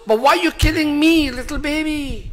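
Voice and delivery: high-pitched acted plea; pleading child. Preacher voices the unborn baby's protest, high pleading voice. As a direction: cry out high, as the baby protesting.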